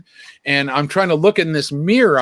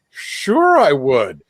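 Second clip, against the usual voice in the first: retold eager acceptance; 4 dB louder, much slower than usual. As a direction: jump at the invitation, playfully overdone. His retold acceptance of an invitation.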